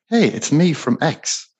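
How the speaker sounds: slow, easy, confident cold-call opener; unhurried, like calling an old friend; relaxed greeting. Shown as a demonstration. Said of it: "if you lean back, relax, call them like".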